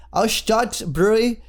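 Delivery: a hammed-up stab at a German accent, slowed down; attempted German accent. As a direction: try the brewery name in a mock German accent and stumble. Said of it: "I was trying to go German, uh, accent there".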